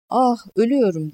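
high, acted cry of pain. A narrator's reading. Wounded Cihan drifts in and out, crying out in pain. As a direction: narrator voicing a half-conscious sufferer crying out. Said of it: "diye bağırdı bilinci gidip gelen Cihan".

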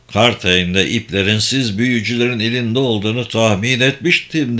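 lightly voiced wry con man; alaycı dolandırıcı. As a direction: answer the mage with dry scepticism. Locke answers mages. (alaycı, kuşkucu dolandırıcı sesi)

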